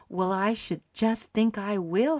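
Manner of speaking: eager emphatic promise, drawn out. Acted. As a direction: lean hard on every word, no doubt about it. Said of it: "said Charlotte emphatically".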